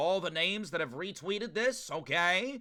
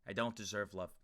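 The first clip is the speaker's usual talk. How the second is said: flat, softer, no excitement at all; all lowercase; 8 semitones lower, 8 dB quieter than usual. Pretend. Streamer tells chat he doesn't deserve love, flat and quiet. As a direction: say it deflated, in lowercase. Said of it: "I'm gonna say it in all lowercase".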